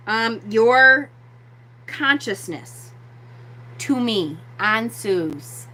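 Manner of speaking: slow, measured invocation with pauses; spoken-aloud request. Shown as a demonstration. Teacher models asking Ansus aloud, slow and measured. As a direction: ask it solemnly, phrase by phrase. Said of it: "I would say out loud".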